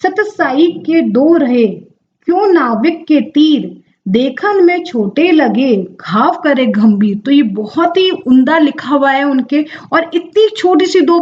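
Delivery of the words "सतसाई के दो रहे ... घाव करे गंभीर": slow, measured couplet recitation; slow poetic recitation of a Hindi couplet; poem recital. Shown as a demonstration. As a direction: recite the doha slowly, savouring each line. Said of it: "उनकी कुछ एक पंक्ति मैं आपको बताना चाहूंगी".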